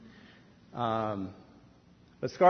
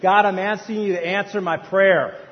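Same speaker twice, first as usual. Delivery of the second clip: loud, raised-pitch mock protest; indignant complaint; 3 semitones higher, 8 dB louder than usual. Preacher protests to God about his family, indignant.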